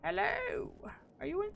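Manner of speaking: high searching call. Real, not acted. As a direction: call out looking for someone. Calling out searching for someone.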